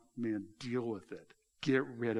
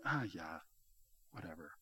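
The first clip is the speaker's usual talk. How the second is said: mock shrug; 7 semitones lower, 10 dB quieter than usual. Mocking a careless culture.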